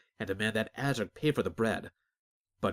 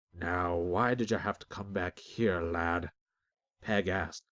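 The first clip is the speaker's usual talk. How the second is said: put-on reproachful old Peg. Dying Peg reproaches Azric.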